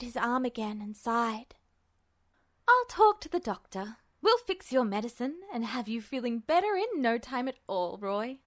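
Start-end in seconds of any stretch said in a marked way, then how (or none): 2.7-8.4 breezy nurse. Acted. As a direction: cheerfully dismiss his worry. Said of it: "she told him".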